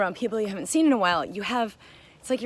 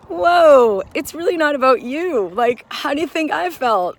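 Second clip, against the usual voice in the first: loud, higher exasperated mock outburst; retold outburst; 7 semitones higher, 10 dB louder than usual. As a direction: throw it back at her, loud and indignant. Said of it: "so upset and angry".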